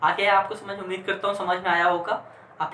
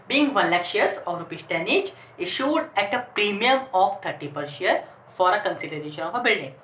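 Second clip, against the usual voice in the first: slow, measured classroom dictation; much slower than usual. Shown as a demonstration. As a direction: read it out slowly for note-takers. Dictating the narration to students.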